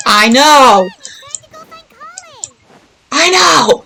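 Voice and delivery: playfully fed up with her nagging; exasperated. Acted.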